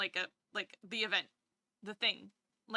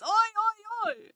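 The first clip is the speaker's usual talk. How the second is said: much higher and louder oi, oi; mock cheer; 12 semitones higher, 11 dB louder, slower than usual. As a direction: yell it like the grinning diners. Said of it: "and goes".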